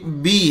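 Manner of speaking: बी short and even, no jerk; correct short bee. Shown as a demonstration. Teacher shows the right बी, short and even. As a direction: say बी cleanly, short and steady. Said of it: "बी झटका देकर नहीं पढ़ेंगे".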